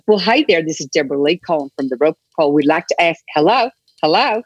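put-on a bright American phone caller's greeting in an American accent. Aussie drama student on a phone-survey job, in an American accent. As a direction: sell the survey call in a practised American accent. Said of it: "I would just do all my accents".

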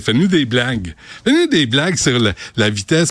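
mock request. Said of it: "puis tu dis".

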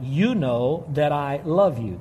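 slow, measured quoted reply; unhurried, word-by-word answer; slow, deliberate quote. Retold or imitated. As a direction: space the words out as you quote. Quotes Peter's answer to Jesus.

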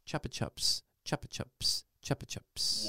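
whispered, savoured one by one; hushed prize reveal. Acted. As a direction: whisper each prize as a little marvel. Reveals the lucky-number prize thrice.

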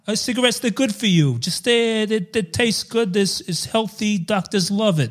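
put-on old-time advertiser voice; sixties ad man. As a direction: sell it like a mock sixties jingle writer. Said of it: "Why are we talking like this?".

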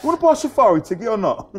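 high, loud, impatient sales push; pushy seller. Retold or imitated. Street seller pressing a tourist, loud impatient pitch. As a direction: push the ticket like a hustler.

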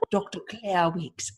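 put-on slow, cultivated posh Australian accent; lightly imitating a refined old Australian lady; Claire Weekes posh Australian accent. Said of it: "her voice was very much like this".

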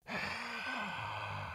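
faint, high breathy sigh far off; eerie whispering sigh; ghostly sigh. Acted. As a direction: let out a spectral sigh.

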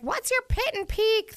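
put-on high, slow drunken question. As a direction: ask it like a tipsy passenger. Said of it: "And I'm like".

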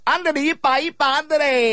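high cartoon mouse impression; squeaky cartoon Mexican mouse; Speedy Gonzalez voice.

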